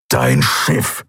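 low, gruff demand; snorting impatience. A narrator's reading. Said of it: "schnaubte er". (unwirsch schnaubend, tief)

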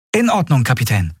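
put-on very high, eager boy's voice. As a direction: hurry to reassure her. Miko voice.

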